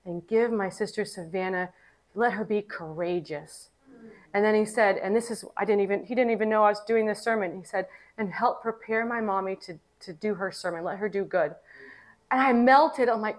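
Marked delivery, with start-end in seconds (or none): 0.1-3.7 low, soft retold prayer; hushed, lightly voiced solemn boy; super-serious child's prayer. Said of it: "He crosses his hands super seriously". 8.2-11.5 soft, low retold prayer; lightly voiced solemn little boy; super-serious child's prayer. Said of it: "He crosses his hands super seriously".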